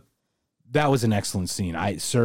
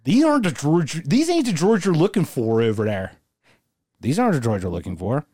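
put-on Philly accent. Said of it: "I'm gonna do it all in Philly voice".

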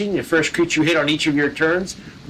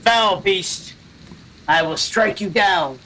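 slow, raised battle cry; Holgrim; 5 semitones higher, much slower than usual. Acted. Player voices a barbarian challenging a monster, slow heroic declaration. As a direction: declaim it slowly like a warrior challenging a foe. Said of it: "Holgrim goes".

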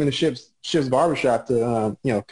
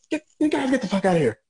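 much higher, fast mock yell; high pitched yell; 10 semitones higher, faster than usual. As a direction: squeak it out like a bossy giant. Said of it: "come in there and yell".

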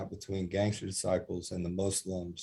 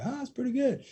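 much higher, delighted exclamation; pleased surprise. Retold or imitated. Speaker praising inmates' chant, much higher delighted exclamation. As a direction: sound thrilled they nailed it.

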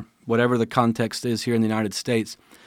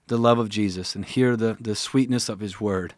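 teary-eyed. Real, not acted. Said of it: "Sorry, I'm getting a little teary-eyed".

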